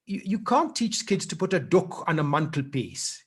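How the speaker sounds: a half-hearted go at broad Yorkshire vowels; Yorkshire accent. Shown as a demonstration. Showing how a Yorkshire teacher would sound, in a mock Yorkshire accent. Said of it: "I'm not very good at a Yorkshire accent".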